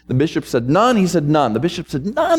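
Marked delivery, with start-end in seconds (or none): 0.7-1.0 short questioning rise; questioning disbelief. Retold or imitated. Bishop querying the discouraged pastor, mildly incredulous. 1.3-1.5 short falling answer; firm confirmation. Retold or imitated. Discouraged pastor answering his bishop, resigned confirmation. 2.0-2.4 high-pitched rising echo of disbelief; incredulous question. Retold or imitated. Astonished bishop questioning the pastor, incredulous.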